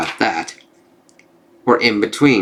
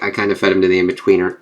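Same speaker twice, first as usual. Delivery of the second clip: quick sheepish admission; 2 semitones lower, faster than usual. Retold or imitated. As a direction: slip it out fast. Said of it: "and then he's like".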